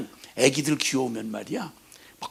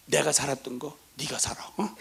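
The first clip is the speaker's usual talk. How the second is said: father hissing a curse at his son; grim whisper; 6 dB quieter than usual. Acted.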